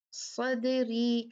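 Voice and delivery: सदरी drawn out very slowly and smoothly, no jerk on the dal; smooth light dal. Shown as a demonstration. Teacher showing students the right way to say सदरी, slow. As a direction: glide slowly through सदरी. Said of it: "खुद ही खुद को remind".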